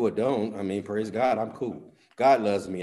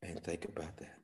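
soft whispered aside; 5 semitones lower, 17 dB quieter than usual. Real, not acted. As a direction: breathe it to the crowd.

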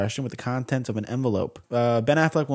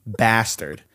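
mock outrage; 5 semitones higher, 4 dB louder than usual. Host berating a younger listener for freeloading, mock outrage. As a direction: play up being scandalized by a freeloader.

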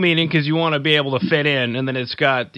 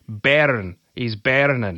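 Scottish accent attempt; 2 semitones lower, much slower than usual. Shown as a demonstration. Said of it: "I can do a lot of accents".

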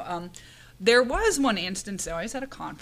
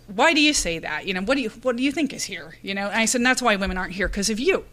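yelling at him; 5 dB louder than usual. Retold or imitated. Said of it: "then I just started yelling at him".

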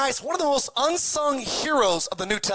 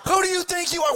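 much higher, shouted rebuke; furious shout; 7 semitones higher, faster than usual. Retold or imitated. Boat crowd yelling at sinking Peter. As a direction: yell the question at him. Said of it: "Everybody's in the boat going".

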